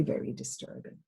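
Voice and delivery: soft unvoiced whisper on very disturbing; whispered emphasis. Real, not acted. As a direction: drop to a hush as if it hurts to say. Repeating for emphasis.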